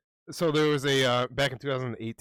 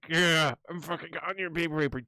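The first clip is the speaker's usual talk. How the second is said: mock defiant reply; 5 semitones higher than usual. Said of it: "And he's like".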